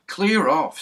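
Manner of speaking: loud, high furious order; angry shout. A narrator's reading. Angry policeman shouting at the dog, loud. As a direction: shout while kicking at the dog. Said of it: "Mister Goon was angry".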